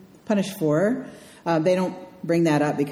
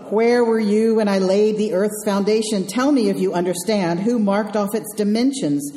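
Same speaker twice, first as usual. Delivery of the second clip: sarcastic God. Retold or imitated. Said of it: "I love that God is sarcastic".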